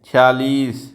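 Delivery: छियालीस said chhi-yaa-lees, clear aspirated chh; correct pronunciation. Shown as a demonstration. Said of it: "ऐसे बोला जाता है". (छियालीस का सही उच्चारण)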